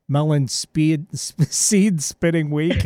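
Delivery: talking with a mouth full of seeds; words round a mouthful of seeds. Real, not acted. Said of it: "my mouth is full of seeds".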